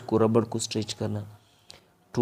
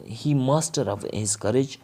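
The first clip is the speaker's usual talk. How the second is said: slow example; 2 semitones higher, much slower than usual. Shown as a demonstration. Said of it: "teacher says example".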